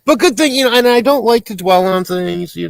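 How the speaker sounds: words squeezed through laughter, high and loud; laughing. Real, not acted. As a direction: talk while still laughing. Laughing through own joke.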